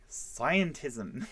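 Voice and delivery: slow, drawn-out mock term; mocking coined word. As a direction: stretch out "scientism" in mockery. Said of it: "they have to invent words for us, like".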